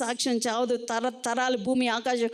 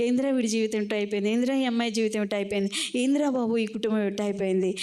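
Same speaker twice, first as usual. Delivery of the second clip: mocking; faster than usual. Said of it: "ఎగతాళి చేస్తూ ఉంటారు".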